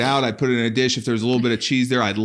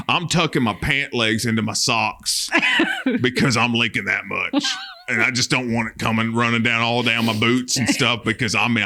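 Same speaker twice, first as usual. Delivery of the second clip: hammed-up redneck; 2 semitones lower than usual. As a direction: keep the proud leaking snacker going. Continued redneck character monologue.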